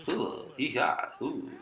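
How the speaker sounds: drawn-out, high whoop of joy; excited yee-haw. Real, not acted. Gamer whooping after a screen-play gain. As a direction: holler it like you just won.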